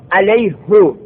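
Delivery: علیهو with the ha read as hu, 'alayhu'; Arabic pronoun form 'alayhu'; damma ending. Shown as a demonstration. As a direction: say علیهو with a short u on the ha. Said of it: "به ضم استعمال داره".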